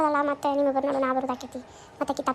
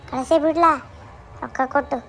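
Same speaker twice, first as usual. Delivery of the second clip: sarcastic jab. Acted. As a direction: throw the sarcasm at her. Mother sarcastic at daughter.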